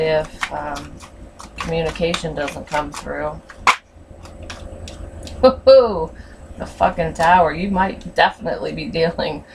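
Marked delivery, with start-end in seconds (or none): 5.4-6.1 loud, high whoop of glee; excited whoop. Real, not acted. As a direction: cheer out loud at the card. Excited cheer at drawing a card.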